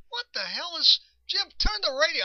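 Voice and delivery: retold annoyed dad; mock exasperation. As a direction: play dad fed up with the radio. Dad annoyed at weak radio.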